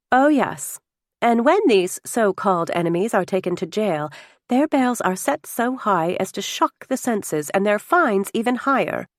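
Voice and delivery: a touch of shocked indignation; disturbed woman guest. Acted. Still disturbed dinner guest replies about jailings, mildly indignant.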